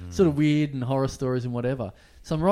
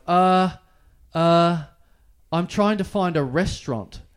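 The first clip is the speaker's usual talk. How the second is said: higher, hesitant uh uh, nervous excuse; flustered stammer; 4 semitones higher, 5 dB louder, slower than usual. Retold or imitated. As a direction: stall like a caught tourist. Nervous reply to police.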